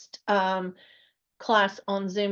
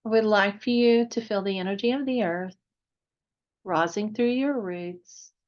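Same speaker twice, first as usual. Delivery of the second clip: unhurried meditation guide, long pauses between phrases; guided meditation. Real, not acted. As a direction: gently lead listeners into relaxation, phrase by phrase.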